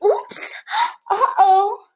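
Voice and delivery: very high oops with a gasp; mock surprise. Teacher reacts to dropped cookie, high hammed-up surprise. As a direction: squeal it like a cartoon.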